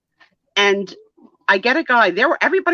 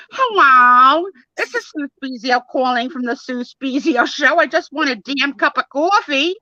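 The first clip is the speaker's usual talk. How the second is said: mock phone call; 3 semitones higher than usual. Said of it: "I called".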